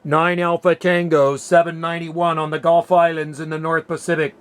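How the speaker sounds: measured ham radio calling voice. Real, not acted. Ham operator calling any Asia Pacific station, radio CQ call. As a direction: call out the callsign evenly over the air.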